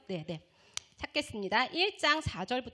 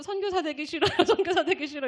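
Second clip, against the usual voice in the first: pastor's daughter; 6 semitones higher, 6 dB louder than usual. Retold or imitated. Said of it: "목사님 딸이 나가가지고".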